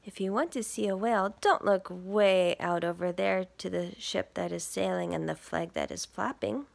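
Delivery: lively picture-book read; reading to children. Acted. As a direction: read it to little listeners. Reads picture book aloud.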